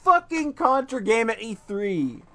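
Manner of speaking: high, loud, incredulous excitement; amazed outburst. Real, not acted. Fan marvelling to friends at the Contra announcement, amazed and loud.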